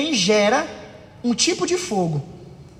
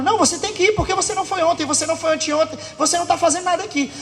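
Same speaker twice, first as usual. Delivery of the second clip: arguing; 4 semitones higher, much faster than usual. Acted. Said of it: "Enquanto a outra tá falando".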